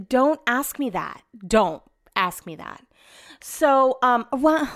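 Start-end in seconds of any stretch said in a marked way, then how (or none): 0.1-1.2 slow, deliberate warning; testy, drawn-out retort; irritated warning. Retold or imitated. Acted warning to her husband. 1.5-2.8 slow, lowered repeat of a warning; testy, deliberate, sinking retort; low warning. Retold or imitated.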